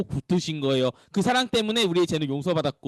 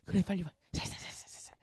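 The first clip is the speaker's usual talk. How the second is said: hushed, playful beckoning; gentle coaxing; 13 dB quieter than usual. Acted. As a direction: coax softly, trailing into a whisper. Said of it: "무섭게 줄을 이렇게 잡아갖고 쫙 이렇게 끄는 게 아니라".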